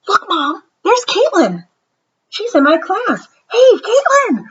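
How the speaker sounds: put-on high, loud child voice calling a friend; excited child calling. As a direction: spot a classmate and wave her over. Molly excitedly spots classmate.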